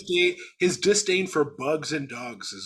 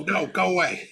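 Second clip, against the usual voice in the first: Marcel yelling at dog; 4 semitones higher, 4 dB louder than usual. Retold or imitated.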